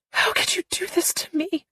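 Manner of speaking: put-on girl pleading, betrayed. A narrator's reading. Callie pleads.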